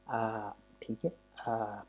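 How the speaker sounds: आ with the mouth wide open, drawn out slowly. Shown as a demonstration. Teacher shows students a wide-open आ. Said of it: "wide open करना है".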